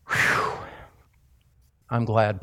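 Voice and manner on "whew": relieved whew. Pretend. Relief after a long argument.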